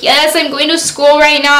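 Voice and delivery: touch of mock crying; retold crying. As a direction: imitate a tearful reply. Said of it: "I was just crying".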